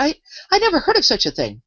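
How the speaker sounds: stammered, high-pitched amazement; astonished. A narrator's reading. Alice answering the Queen in great astonishment. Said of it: "in great astonishment".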